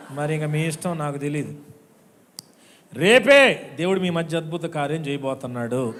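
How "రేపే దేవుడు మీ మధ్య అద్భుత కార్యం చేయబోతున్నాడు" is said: loud proclaiming shout. Real, not acted. Pastor proclaiming tomorrow's miracle, loud shout. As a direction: announce the miracle with a cry.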